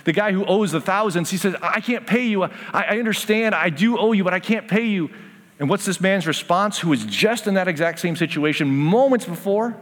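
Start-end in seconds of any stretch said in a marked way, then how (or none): 1.6-5.1 higher-pitched retold begging; pleading. Second debtor on his knees to servant, pleading. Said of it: "he falls down on his knees".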